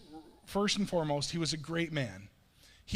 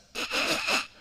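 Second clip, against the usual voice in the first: wheezy, voiceless burst of laughter; imitated laughing fit; 3 dB louder than usual. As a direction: mimic a daughter cracking up. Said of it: "but also just laughing".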